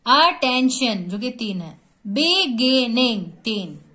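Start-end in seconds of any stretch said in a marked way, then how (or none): 0.1-1.1 अटेंशन in three even, separated beats; syllable by syllable. Shown as a demonstration. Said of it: "जितने syllables हम लोग पढ़ रहे हैं". 2.1-3.2 बिगिनिंग in three even, separated beats; syllable by syllable. Shown as a demonstration. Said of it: "जितने syllables हम लोग पढ़ रहे हैं".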